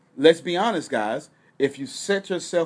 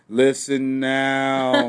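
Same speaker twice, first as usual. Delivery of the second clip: slow, drawn-out hypnotic command; 4 dB louder, much slower than usual. Pretend. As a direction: lull them like a hypnotist. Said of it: "Give me the hypnotic voice".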